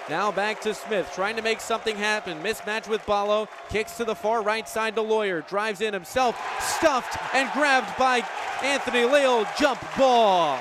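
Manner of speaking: quick, rising basketball call; live play-by-play. Acted. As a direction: push the action to the block.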